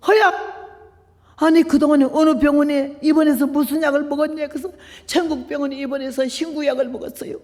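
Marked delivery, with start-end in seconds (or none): 0.1-4.5 raised-pitch astonished questioning; startled nun. Retold or imitated. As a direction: imitate a nun amazed at the X-ray. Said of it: "수녀가 와서는 놀래가지고". (깜짝 놀란 수녀 흉내)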